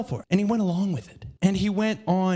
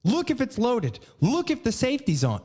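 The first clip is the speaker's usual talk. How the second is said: retold scolding, each order punched higher; mildly imitated stern instructor; stern telling-off; 6 semitones higher than usual. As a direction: drill the safety checks into a careless friend. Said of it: "got on my ass about it".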